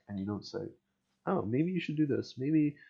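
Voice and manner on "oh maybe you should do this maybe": mock suggestion. Voices someone offering helpful suggestion.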